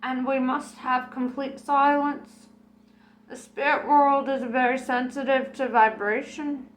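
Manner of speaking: a psychic setting a hushed mood with grand authority; Madame Tracy voice. Acted.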